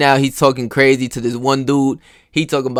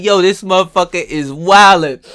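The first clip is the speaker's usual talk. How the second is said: exasperated; 5 semitones higher, 5 dB louder than usual. Retold or imitated. Retold exasperated remark.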